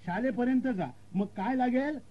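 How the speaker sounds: high-pitched local quizzing; rustic direction-giver. Acted. Local explaining the way to the school, high quizzing voice. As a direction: lift the pitch, checking they follow.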